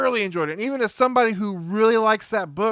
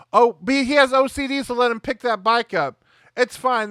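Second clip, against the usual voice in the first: mock indulgence; 5 semitones higher, 3 dB louder than usual. Mocking the gullible officers in film.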